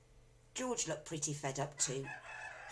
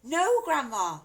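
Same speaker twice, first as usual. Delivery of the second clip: higher, urgent protest; pleading boy; 9 semitones higher, 11 dB louder, slower than usual. A narrator's reading. George protesting to grandma. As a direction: plead with her quickly. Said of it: "George said".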